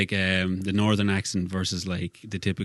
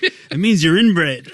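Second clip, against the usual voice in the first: slow, loud punchline doctor; deadpan doctor; 9 semitones higher, 10 dB louder, much slower than usual. Retold or imitated. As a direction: drag out the verdict slowly.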